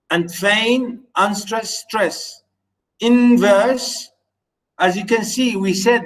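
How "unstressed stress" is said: "unstressed stress" as soft then strong beats; iamb beat demo. Shown as a demonstration. Teacher modelling iambic beat for students, da-DUM.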